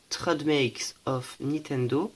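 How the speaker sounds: slow English in a French accent. Real, not acted. Collector reading the card's English print aloud, French-accented English. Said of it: "mon bel accent anglais".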